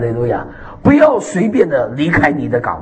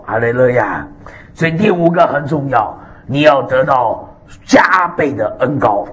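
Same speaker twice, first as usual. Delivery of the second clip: ordinary talk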